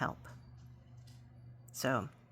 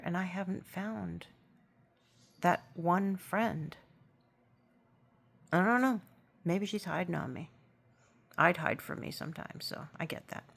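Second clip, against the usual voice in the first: teary. Real, not acted. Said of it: "sorry for getting all teary and stuff".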